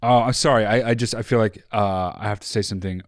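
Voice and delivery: halting, apologetic interruption; hesitant apology. Shown as a demonstration. Host demonstrates a polite interruption, hesitant and apologetic. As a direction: hedge your way in with hesitations. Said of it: "how do you do it?".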